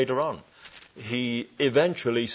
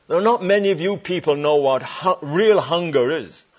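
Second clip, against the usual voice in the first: louder, higher retold challenge to the congregation; retold preaching; 5 semitones higher, 6 dB louder than usual. Preacher retelling how he challenged a California congregation, louder. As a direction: throw the challenge out.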